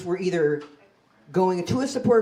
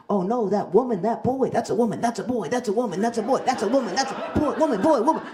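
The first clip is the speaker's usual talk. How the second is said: quick, higher back-and-forth bickering; arguing bystanders; 3 semitones higher than usual. Retold or imitated. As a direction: toss the words back and forth like a spat. Bystanders arguing over fainting comic.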